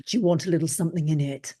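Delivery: a quick, lightly voiced offer of a nip in the tea; Ollie's sly offer. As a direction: rattle it off, lightly mimicking a cheeky Ollie. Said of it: "Like that".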